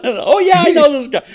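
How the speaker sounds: high, laughing mock of an elderly parent; laughing old-timer impression; imitating old parents. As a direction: play mom and dad thrilled to know the old star. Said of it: "I'm sounding like my mom and dad".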